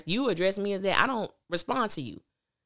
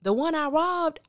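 quoting Q; 10 semitones higher, 4 dB louder than usual. Retold or imitated. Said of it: "This dude says".

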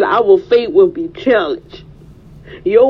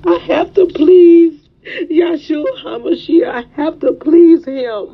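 tearful prayer; 3 semitones higher than usual. Real, not acted. Preacher confessing to God, voice catching with tears. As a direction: let the voice break as she pleads.

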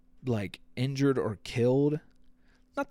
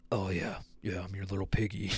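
lightly voiced client; 4 semitones lower, 3 dB quieter than usual. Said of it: "pay good money".

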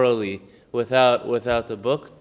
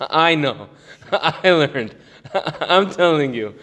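mock arrogance; 3 dB louder, slower than usual. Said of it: "he starts to become a little arrogant".

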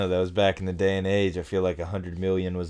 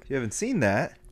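uptalk; 4 semitones higher than usual. Pretend. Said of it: "with that upward inflection".

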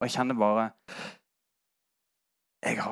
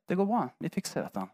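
comforting; 7 semitones higher, 4 dB quieter than usual. Retold or imitated. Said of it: "trøster meg og sier".

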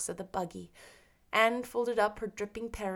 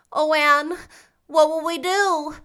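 put-on higher, louder cry of a frightened girl; Diana's worried voice; 7 semitones higher, 11 dB louder than usual. A narrator's reading. Diana frightened of the storm, crying out to Anne. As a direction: plead anxiously with your friend.

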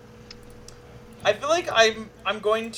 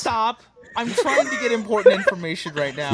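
laughing; 4 semitones higher, 3 dB louder than usual. Real, not acted. Player laughs while scolding.

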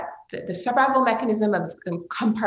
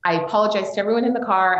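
usual speaking voice

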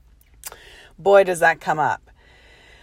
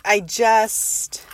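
sudden whisper; 4 semitones higher than usual. Real, not acted. Hushing as she tells her listeners about the group. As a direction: drop to a whisper. Hushed as she reaches the scary part.

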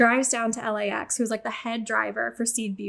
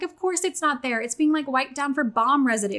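exasperated; 3 semitones higher than usual. Retold or imitated. Traveler retelling her lost-bag reaction to host, exasperated. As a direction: recount it with worked-up, can't-believe-it resignation.

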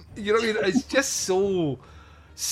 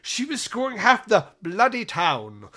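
Malcolm McDowell. Retold or imitated. Retelling the actor's kitchen rant, shifting accent. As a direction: imitate an actor's accent slipping as the rant builds. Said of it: "it just fucking changes again".

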